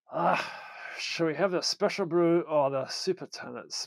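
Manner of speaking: a light mock Scottish accent; a Scottish accent, lightly voiced. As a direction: ham up a Scottish connoisseur. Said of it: "I did it in a Scottish accent".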